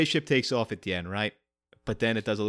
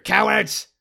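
mock taunt; 8 semitones higher, 8 dB louder than usual. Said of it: "you cowards".

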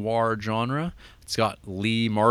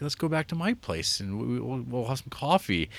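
higher-pitched, lightly imitated nice guy; nice-guy invitation; 4 semitones higher than usual. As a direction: retell a friendly, casual invitation in a slightly higher voice. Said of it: "like, really nice".

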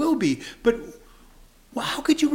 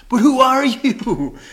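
louder, slower challenge; demanding question; 5 semitones higher, 8 dB louder, slower than usual. Acted. Preacher reading the crowd challenging Jesus, louder. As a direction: demand it of him.

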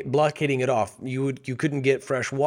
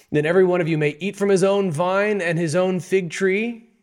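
proclaiming emissary; 6 semitones higher, 4 dB louder than usual. Acted. Emissary's promise read out boldly.

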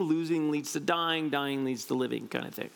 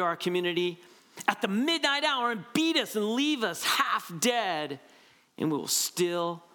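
impassioned speech reading. Acted. Reads MLK quote with rising force.

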